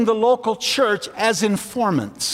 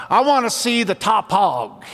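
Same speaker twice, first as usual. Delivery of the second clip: lightly put-on Texas drawl; a Texan cowboy asking in a Texas drawl. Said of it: "in his Texas drawl".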